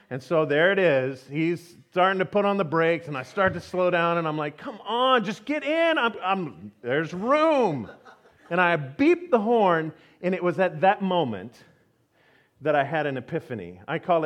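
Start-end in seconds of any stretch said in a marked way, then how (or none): 4.6-7.9 acted impatience. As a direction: plead impatiently with another driver, pitched up. Acts out frustrated urging of driver.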